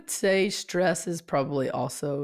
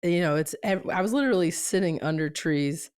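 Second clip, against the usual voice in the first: crackly lost voice; hoarse voice. Real, not acted. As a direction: talk through a strained throat. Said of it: "I just couldn't talk anymore".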